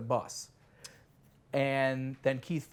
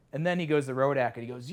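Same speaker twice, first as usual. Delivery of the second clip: ordinary delivery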